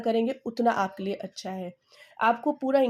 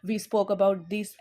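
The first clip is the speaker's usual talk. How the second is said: slow dictation; 3 semitones lower, much slower than usual. Shown as a demonstration. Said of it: "उस experience को लिखिए".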